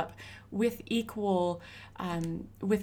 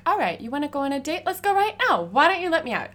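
higher, louder, fast mock-eager pitch; 9 semitones higher, 9 dB louder, faster than usual. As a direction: sell it like you're thrilled, teasing him. Mocking the cop's date offer.

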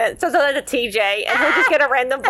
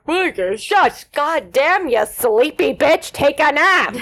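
scolding; 3 semitones higher, 3 dB louder, slower than usual. Pretend. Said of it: "It's like".

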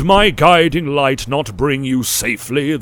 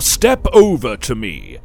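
booming command; 3 semitones higher, 8 dB louder than usual. Acted. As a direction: boom the command like a god. Elder commands after boasting.

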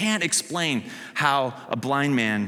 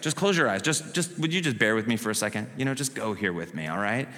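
softer, coaxing them to close their eyes; soft guiding voice; 5 semitones lower, 5 dB quieter than usual. Acted. Preacher gently guiding the congregation into a scene, softer. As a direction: gently lead the room into imagining it.

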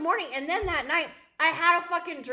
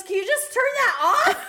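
loud, high mock-husband complaint; retold angry yell; 12 semitones higher, 5 dB louder than usual. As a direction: imitate an exasperated husband shouting. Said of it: "We're yelling at each other".

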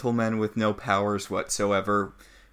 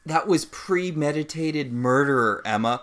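holier than thou; 3 semitones higher, 4 dB louder than usual. Pretend. Acting out holier-than-thou Mary Margaret.

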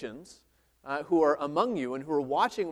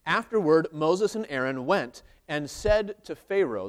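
louder, measured Bible reading; scripture reading; 4 dB louder than usual. Acted. Preacher reading Exodus aloud to the church, steady and louder. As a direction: read the verse out to the congregation.

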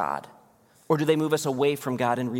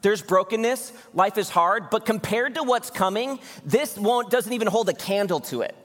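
high, eager voicing of Paul; preacher lightly acting out Paul; 6 semitones higher than usual. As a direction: speak as Paul, lifted and hopeful. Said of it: "He's like".

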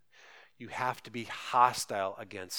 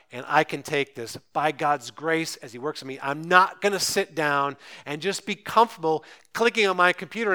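loud, driving declaration in a preacher's delivery; determined preaching; 2 semitones higher, 7 dB louder than usual. Acted. Preacher voicing a follower refusing to give in, determined. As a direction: build resolve to an emphatic close.

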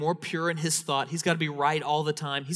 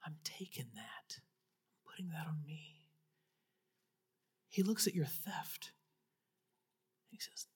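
soft, hushed, intimate whisper; whispered altar call; 10 dB quieter than usual. Acted. Pastor inviting the congregation to reach out, soft whisper. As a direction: draw each listener in close and gently.

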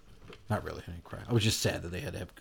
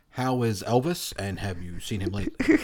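Larry King impression; 3 dB louder than usual. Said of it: "my worst Larry King impression".

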